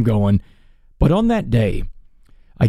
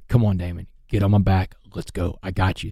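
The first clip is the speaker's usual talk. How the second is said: lower, softer voice of Jesus reassuring; Jesus comforting him; 4 semitones lower, 4 dB quieter than usual. Retold or imitated. Jesus speaks to him crying in the shower, soft and lower. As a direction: gently lift him up like a patient savior. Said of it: "Jesus is talking to me in the shower".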